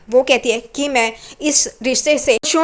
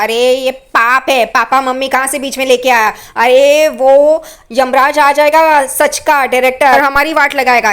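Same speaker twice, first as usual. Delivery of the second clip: exasperated scolding; 5 dB louder than usual. Retold or imitated. Assistant director scolds the actor.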